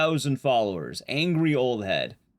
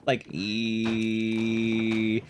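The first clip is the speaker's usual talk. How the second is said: hydraulic press noise; 6 semitones lower than usual. Retold or imitated. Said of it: "makes the sounds of a hydraulic press".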